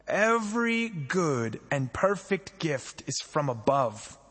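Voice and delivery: slow, measured reading of scripture. Acted. Pastor reading James to the church, slow and solemn. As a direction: read each phrase slowly and deliberately.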